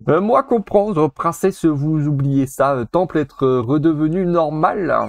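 slow, broken caveman-style speech; simple monkey. Acted. The monkey answering the princess in broken words, slow. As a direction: speak like a simple creature, slowly.

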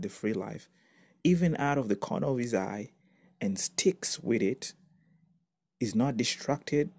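slow, measured reading with pauses; scripture reading. Real, not acted. Preacher reading a favourite translation aloud, measured scripture reading. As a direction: read it out phrase by phrase, savouring the wording.

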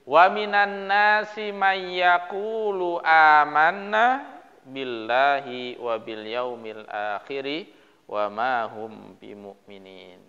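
measured, chanted Quran recitation. Acted. Teacher reciting the verse for the class in a slow chant.

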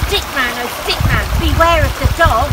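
loud sing-song warning; urgent calling warning. Acted. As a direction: call out a warning to him. Warning call to Stickman.

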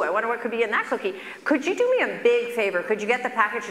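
lightly sweet coaxing request. Retold or imitated. Doctor coaxing patient on Zoom, light coaxing voice. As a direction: coax him gently. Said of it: "So he said".

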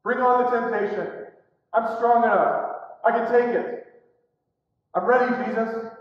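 eager, confident challenge; cocky bravado. Retold or imitated. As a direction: boast like you can take anything. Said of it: "Peter's attitude is".

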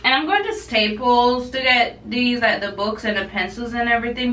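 toothbrush in mouth, words blurred; talking while brushing teeth. Real, not acted. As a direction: talk around a toothbrush. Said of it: "let me talk while brushing my teeth".

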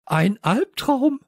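very high, slow, loud outcry; booming voice. A narrator's reading. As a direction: boom it out, stretched and high. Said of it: "da dröhnte plötzlich eine Stimme".

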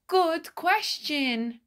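high, slow, puzzled crowd reply; crowd answering. Acted. Villagers answering the mayor, high and puzzled. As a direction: say it like stumped villagers.

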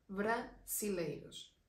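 "brasileiros" spoken slowly with a soft, light s. Shown as a demonstration. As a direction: say "brasileiros" gently, without pushing the s. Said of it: "no es tan pronunciada, es más suave".

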